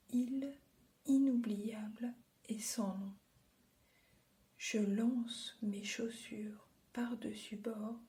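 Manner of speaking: restrained reading with long pauses between lines; understated poem reading, settling down towards the signature; poem recitation. Acted. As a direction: recite it gently, letting each image hang. Recites the poem a second time.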